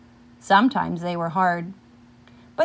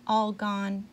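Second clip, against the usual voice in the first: small sad voice; 7 dB quieter than usual. Acted. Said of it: "in a small voice, or sad voice".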